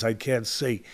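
soft, low and defeated, almost swallowed. Retold or imitated. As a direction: mutter it softly like a beaten fighter. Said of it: "might say in a very low tone".

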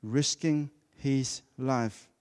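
very slow, each word drawn out; drawn-out emphasis on risking. Shown as a demonstration. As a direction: stretch out risking his life. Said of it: "Highlight the word".

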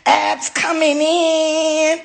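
hyped-up shout about her workout; mock hype. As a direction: crow it like a proud athlete, stretching the end. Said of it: "I said".

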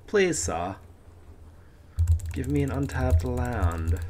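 playful British plea; put-on British begging voice; British accent. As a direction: beg for it in mock-British. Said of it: "keep talking to British accent".

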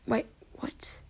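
confused whisper. Real, not acted. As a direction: whisper it in disbelief. Confused at a glitch.

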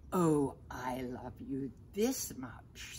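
put-on gentle whispered child hare; little hare whisper. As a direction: breathe it like a small sleepy hare. Little hare speaking to big hare.

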